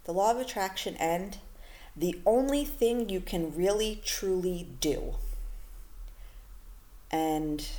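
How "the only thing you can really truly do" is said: "do" drawn out and leaned on at the end; slow, weighty "truly do"; stress on do. Shown as a demonstration. Podcast host stressing the one thing you can do. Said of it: "the word do there is emphasized".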